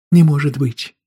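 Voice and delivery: can't believe it; shocked disbelief. A narrator's reading. Wife hearing of arrest, loud stunned disbelief.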